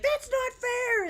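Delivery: put-on high, drawn-out little-girl wail; mock scream. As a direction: imitate a little girl's screaming tantrum. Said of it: "like, screaming".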